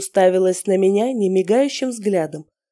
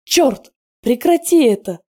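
louder, higher desperate cry; anguished shout; 5 semitones higher, 5 dB louder than usual. A narrator's reading. Broken woman shouts at her tormentor. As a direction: beg him to stop, pained. Tatiana in pain.

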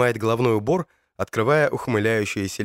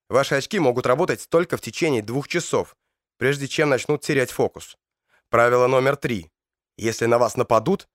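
firm, commanding briefing voice; stern commander. Acted. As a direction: give orders like a squad leader. (строгий командир)

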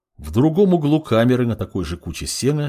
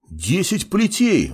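indignant; 8 semitones higher, slower than usual. Acted. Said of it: "возмутился второй солдат".

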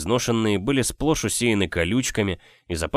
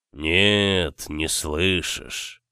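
smirking; 2 semitones lower, much slower than usual. Acted. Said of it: "усмехнулся незнакомец".

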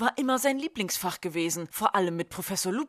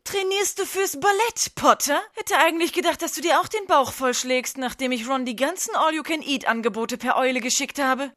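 sneering rival; 6 semitones higher than usual. Acted. Draco taunting Harry during the match, high sneer. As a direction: needle him from above.

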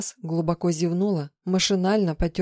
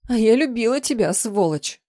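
tearful; 5 semitones higher, 4 dB louder than usual. Acted. Heroine sobbing accuses husband.

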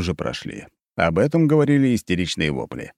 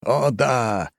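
lustful; 7 semitones higher, slower than usual. A narrator's reading. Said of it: "похотливо проговорил Грифич".

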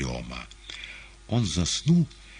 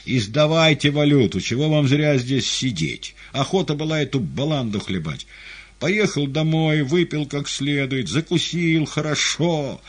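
shouting; 9 semitones higher, 5 dB louder than usual. Acted. Cooks calling to audience.

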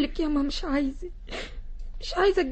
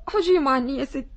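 tearful plea; 4 semitones lower than usual. Acted. Khadija begs the lady.

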